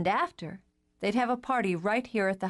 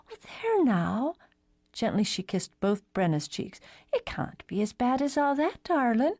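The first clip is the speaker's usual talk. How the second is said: comforting; 5 semitones higher than usual. Acted. Alice May comforting Brenna.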